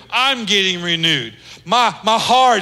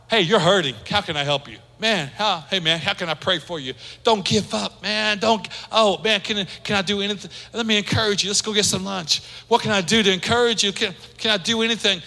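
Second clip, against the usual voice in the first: softer, quick offers of help; mildly encouraging; 4 dB quieter, faster than usual. Acted. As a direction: gently check in on a hurting friend. Acts out encouraging a hurting friend.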